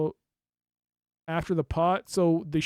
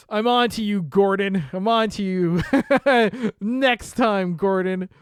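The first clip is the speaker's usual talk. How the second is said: loud, high playful menace; mock threat; 5 semitones higher, 10 dB louder, slower than usual. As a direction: warn the suspect theatrically.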